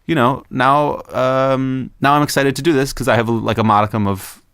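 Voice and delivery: cheerful. Retold or imitated. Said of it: "he was so totally cheerful".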